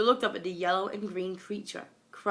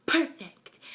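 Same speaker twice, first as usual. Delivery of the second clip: gleeful gloat; 8 semitones higher, 5 dB louder than usual. Acted. Villain gloats at plan.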